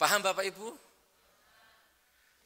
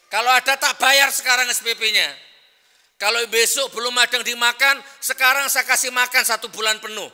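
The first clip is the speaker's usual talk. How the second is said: emphatic offer; 3 semitones higher, 5 dB louder than usual. Real, not acted. Janji tegas kepada jamaah.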